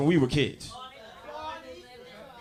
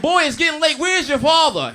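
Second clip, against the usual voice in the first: mother calling; 9 semitones higher, 7 dB louder than usual. Retold or imitated. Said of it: "She's like".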